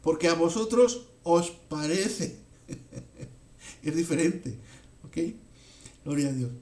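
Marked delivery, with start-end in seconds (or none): 0.0-2.4 "vosotros" said with a pointed, doubting rise; stress on vosotros. Shown as a demonstration. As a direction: lean on "vosotros", rising on "os parece". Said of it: "Les está diciendo".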